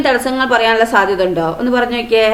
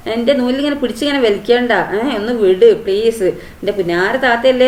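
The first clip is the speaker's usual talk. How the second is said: coaxing plea. Acted. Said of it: "അവൻ കൊഞ്ചുകയാണ്".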